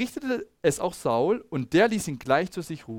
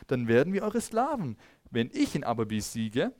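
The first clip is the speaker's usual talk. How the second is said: challenging Goliath; 2 semitones higher than usual. Acted. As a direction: read the taunt like a mildly acted giant. Goliath's challenge read aloud. (leicht gespielter, höhnender Goliath)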